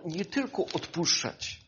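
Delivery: "nie tylko odpuszczać" said softly, stress on "tylko"; hushed first take; quiet. Real, not acted. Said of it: "wiecie co".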